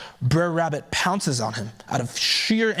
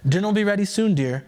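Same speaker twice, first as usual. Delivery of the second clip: sweet farmer's wife; 5 semitones higher, 3 dB louder than usual. Acted.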